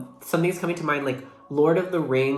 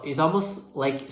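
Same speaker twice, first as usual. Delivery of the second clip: slower, deliberate pace; slowing down; slower than usual. Real, not acted. Reader catching herself rushing, deliberately slowing down. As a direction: rein in the rush and take it slowly. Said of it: "I'm trying to slow down".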